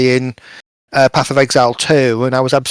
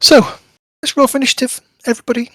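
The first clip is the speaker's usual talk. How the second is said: announcing the roll; 11 semitones higher, much faster than usual. Real, not acted. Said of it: "GM calling to roll".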